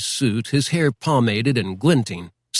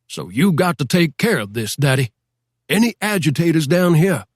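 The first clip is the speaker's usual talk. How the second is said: insistent sheriff; 5 semitones higher than usual. Acted. Sheriff pressing Daddy to run agitators out, insistent rising voice. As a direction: lean on him, your pitch climbing with each demand.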